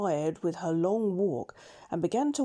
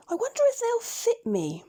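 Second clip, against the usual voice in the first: put-on hushed, much higher girlish whisper; whispered wonder; 3 dB louder than usual. Dorothy whispering to Toto over the silver shoes, hushed and high. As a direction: breathe it as a secret hope. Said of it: "she said to Toto".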